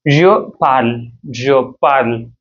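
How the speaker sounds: "Je parle" with "parle" as one syllable; present tense pronunciation. Shown as a demonstration. Teacher contrasting present with past tense, clipped-off ending in "parle". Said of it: "the phonetical difference we can see".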